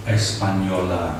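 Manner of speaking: Española said as four syllables, es-pa-ño-la; four-syllable pronunciation. Shown as a demonstration. Teacher showing the feminine form, Española in four syllables. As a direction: give Española an extra final syllable, la. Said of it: "four syllables".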